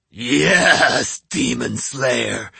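slow mocking demon; mocking ogre. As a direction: sneer the title back at him. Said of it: "it mocked".

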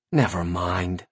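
low, soft grumble; muttered. A narrator's reading. Narrator giving up on the imp's trap, muttered. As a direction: give up under your breath. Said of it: "I muttered".

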